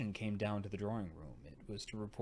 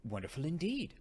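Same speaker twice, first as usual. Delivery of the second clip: shaken echo; 6 semitones higher, 6 dB louder than usual. A narrator's reading. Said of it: "I repeated".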